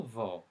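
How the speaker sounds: "Vo" opening on a clear v, then o; Vo pronounced with v onset. Shown as a demonstration. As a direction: say "Vo" as one syllable, v plus o. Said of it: "is pronounced Vo at the beginning".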